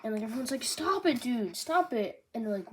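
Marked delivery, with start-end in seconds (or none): 0.6-2.2 higher, slow begging; mock pleading. Everyone begging Charlos to stop, mock plea. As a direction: plead with the noble.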